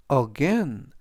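"again" with the A after G stressed; light first syllable, stress the "gain" of "again"; stress on second syllable. Shown as a demonstration. Teacher models "again" for learners, stress on second syllable. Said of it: "G 뒤에 있는 A의 강세가 있습니다".

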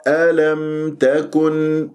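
slow chant, meem in ألم sounded clearly; clear izhar. Shown as a demonstration. Teacher shows clear articulation of ألم تكن, slow recitation. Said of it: "لازم تجيب الإظهار".

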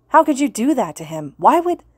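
high, loud desperate yell; shout, breaking off mid-sentence. A narrator's reading. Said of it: "Kirishima yelled".

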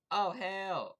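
sudden loud cry of alarm; startled yell. Real, not acted. Gamer yelling at a sudden threat in the game, startled shout. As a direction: blurt it out, caught off guard.

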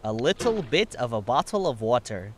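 low, stiff text-to-speech voice; broken TTS. Shown as a demonstration. Co-streamer asked for the phrase, broken TTS delivery. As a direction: recite it like a malfunctioning speech synthesizer. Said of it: "You sound like broken T T S".

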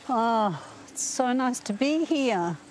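choked up, voice lifting high; fighting back happy tears; real emotion welling up at a special place; emotional. Real, not acted. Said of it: "I'm getting a bit emotional".

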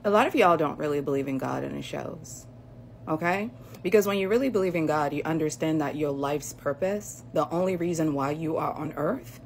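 muffled behind a face mask; through a face mask. Real, not acted. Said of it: "so excuse the mask".

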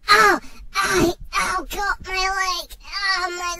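loud hammed-up cries of pain; mock agony, loud and drawn out; pained yelling. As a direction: yell out as the dingo bites your leg. Dingo bites his leg.

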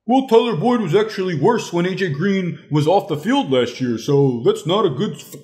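high-pitched, whiny mock objection; exaggerated high singsong mockery; mocking naysayer. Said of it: "people that are about to say".

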